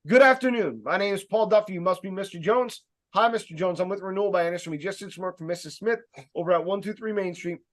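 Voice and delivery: confident, projected sales introduction; brisk, self-assured rep introducing himself; speaking with authority. Shown as a demonstration. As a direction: demonstrate an assured greeting at the door, opening firmly. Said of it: "That's how you wanna start off your conversation".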